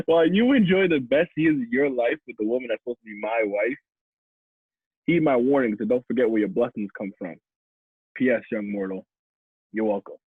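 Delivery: spoken-word ending; spoken-word poem. Acted. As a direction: recite the verse, dropping down for the sign-off. Resumes poem after laughing.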